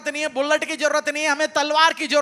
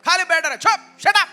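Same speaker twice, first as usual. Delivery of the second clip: mock scolding crowd, a bit louder; 2 semitones higher, 3 dB louder than usual. Bystanders scold the blind beggar, mild mock scolding. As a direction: hush him, lightly voiced bystanders. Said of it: "जो लोग आसपास बैठ के बोल रहे हैं".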